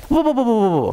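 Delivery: quick, run-together whoas; startled interruption. Retold or imitated. Preacher retelling how he stopped his friend mid-story, startled. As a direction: cut in to halt the talk, mock startled.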